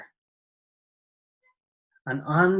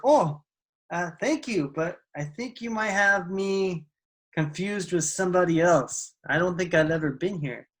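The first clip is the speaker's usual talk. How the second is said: polite confusion; 3 semitones higher than usual. Acted. Startled woman politely corrects stranger.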